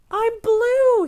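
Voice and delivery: high, loud joyful cry; triumphant high shout; joyful declaration. Acted. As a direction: announce it with pure joy. Red proudly declares being blue.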